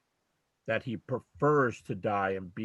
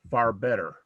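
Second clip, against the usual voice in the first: "far better" pushed out louder, both words leaned on; emphatic far better; 6 dB louder than usual. Shown as a demonstration. Quoting Paul's verse to stress it, pushing "far better" out louder. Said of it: "to put this extra emphasis on it".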